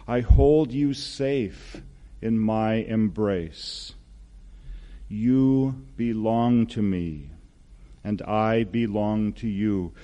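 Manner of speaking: unhurried, solemn words of blessing; God's loving voice. Acted. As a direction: lightly voice God blessing a beloved child. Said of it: "I'd like you to hear that voice".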